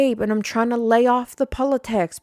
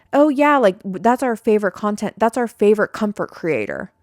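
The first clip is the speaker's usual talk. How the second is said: gushing fan; 4 dB louder than usual. Retold or imitated. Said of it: "people are like".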